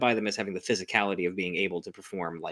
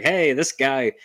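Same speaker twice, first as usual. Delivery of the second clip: mock angry boss; 6 semitones higher, 5 dB louder than usual. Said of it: "he's like".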